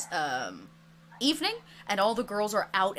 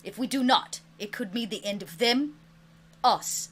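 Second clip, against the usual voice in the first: slow, loud solemn dragon proclamation; grave dragon; 6 dB louder than usual. Acted. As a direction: announce the danger like an ancient dragon. GM voices dragon warning players.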